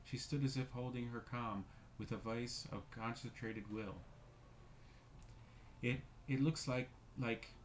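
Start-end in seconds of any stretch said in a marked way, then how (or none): 5.8-7.5 louder, broken, horrified stammer; stammering in horror. Acted. Missus Brigham stammering at the shadow, horrified. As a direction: stumble over the words in horror. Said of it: "stammered Missus Brigham in a tone of intense horror".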